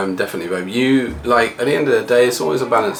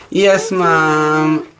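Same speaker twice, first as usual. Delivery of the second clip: mock sweet daughter; 5 semitones higher than usual. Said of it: "She tried to give that kind of like".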